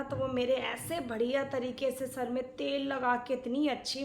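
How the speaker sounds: low, soft, fond recollection; fond reminiscing. Acted. Aunt praises husband's head massage, fond reminiscing. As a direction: recall it softly and lovingly.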